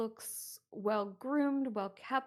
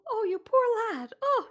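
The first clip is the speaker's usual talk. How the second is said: higher, louder pitying coo; sympathetic hostess; 11 semitones higher, 8 dB louder than usual. Acted. Game master voicing the kind hostess, pitying coo. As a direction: coo over him like a kind landlady. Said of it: "she seems to be quite sympathetic".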